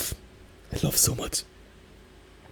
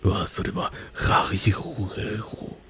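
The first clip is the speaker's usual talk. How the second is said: "ra-ri-ru-re-ro" with throaty German uvular r, slow; "ra-ri-ru-re-ro" said slowly with a German guttural r; German r sounds. Shown as a demonstration. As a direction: roll "ra-ri-ru-re-ro" from the back of the throat like German. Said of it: "German, Deutsch".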